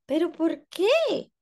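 high, slow plaintive question; pleading girl. Acted. Ada asking her angry parents, high and slow. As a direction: beg to understand. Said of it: "dijo Ada".

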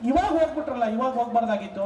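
a hint of a sobbing wife; mock wailing widow. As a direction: imitate a widow crying over her husband. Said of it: "ಅಂತಿತ್ತು ಅಳ್ತಾ".

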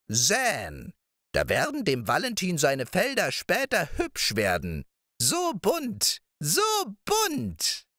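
put-on high old witch voice, barely hushed; sly witch murmur. A narrator's reading. Witch whispering her plan to Balthasar, high sly crone voice. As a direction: let the spell secret slip out slyly. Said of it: "sprach sie flüsternd".

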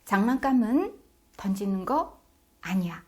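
measured teaching tone, pause before 아니야; firm parental demonstration, phrase by phrase; firm unsmiling correction. Shown as a demonstration. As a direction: state the rule to a child without smiling. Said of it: "생글생글 웃으면서 말하시면 안 됩니다".

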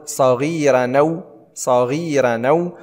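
"صغيرا أو" run together as saghiiranaw; naql. Shown as a demonstration. Teacher showing the transfer, "صغيرا أو" joined as saghiiranaw. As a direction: link "صغيرا أو" without hamza, long ii. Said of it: "لدينا باختصار النقل نقول".

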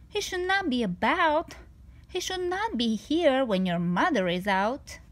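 a fussy little fish begging the cat away; worried fish. Acted. The fish protests in a voice.

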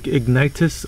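"Ignitus" with an i in the middle; tentative pronunciation. Shown as a demonstration. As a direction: try "Ignitus", i as the middle vowel. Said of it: "problems pronouncing this guy's name".

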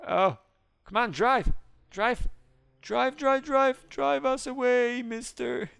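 high, loud repeated pleading to drive; frantic urging. Real, not acted. Escaping police, begging the driver with high frantic calls. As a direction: beg the driver to hurry away.

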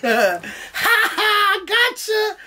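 high slow teasing taunt with a laugh; mock taunt. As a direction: gloat like a dealer who got you. Mocking the dab-pushers.

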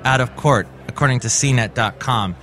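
measured newscaster delivery with lifted phrase openings; news read. Acted. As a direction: read it out like a tech news bulletin.

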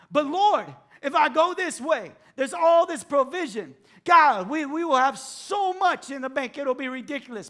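eager plea to the Lord; pleading with the Lord. Pretend. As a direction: argue your case to God. Believer pleading with God.

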